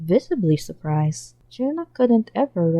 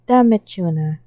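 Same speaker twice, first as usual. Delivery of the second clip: drawl; 5 dB louder than usual. Acted. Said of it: "Reborn drawled".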